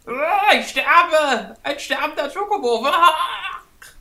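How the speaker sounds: high, loud, slow hammy death cry; hammy dying chocobo. Pretend. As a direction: overact a dying bird. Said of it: "sehr theatralisch".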